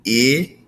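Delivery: short "ih" for "I", standing alone; isolated vowel sound. Shown as a demonstration. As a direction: sound out "I" as "ih", not "eye". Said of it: "that's our vowel sound".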